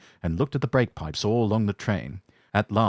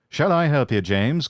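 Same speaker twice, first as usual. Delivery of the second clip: calling out; 6 semitones higher, 4 dB louder than usual. Acted. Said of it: "called Edward".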